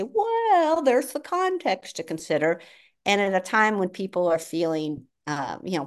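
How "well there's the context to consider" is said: a high, drawn-out Well, then a lightly hedging academic tone; mock academic hedging. Mocking how academics answer the public, hedging. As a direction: parody a professor dodging a straight answer. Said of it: "They want to say".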